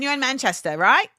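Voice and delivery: put-on lightly British-accented question; a hint of British in a casual check. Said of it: "why am I talking like that".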